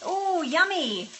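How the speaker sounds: high, loud, drawn-out relish; delighted. Real, not acted. Cook reacting to someone's yummy dish, delighted.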